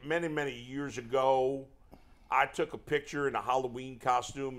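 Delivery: lightly put-on Southern accent; old manager rambling in a mild mock Southern accent; hint of a Southern accent, unhurried; Terry Francona. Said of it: "like, a Southern accent".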